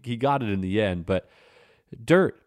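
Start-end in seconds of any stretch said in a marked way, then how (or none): 2.0-2.4 put-on high, loud echo of a kid's answer; imitated child's blurt. Father recalling his son's answer, imitated high blurt. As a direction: mimic the little boy's sudden answer.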